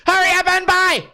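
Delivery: high, rushed clerk yelling at customers; mock clerk barking at shoppers; high mock shopkeeper yell; shrill store clerk. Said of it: "the chick's like".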